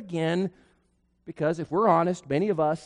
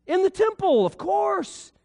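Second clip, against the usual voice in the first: emphatic answer; 12 semitones higher than usual. Acted.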